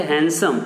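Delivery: हैंडसम as हैनसम with no d; correct handsome. Shown as a demonstration. Teacher giving the right form: हैंडसम as हैनसम. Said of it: "इसका सही pronunciation क्या है".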